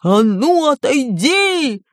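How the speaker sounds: drawn-out, booming giant's command; angry yell. A narrator's reading. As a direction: bellow at your brother to move aside. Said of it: "заорал он на своего брата".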